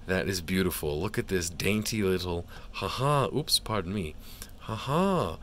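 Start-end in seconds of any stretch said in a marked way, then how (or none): 2.7-5.4 high giddy giggles; nervous laugh. Real, not acted. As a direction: giggle it off, embarrassed. Giggling at card.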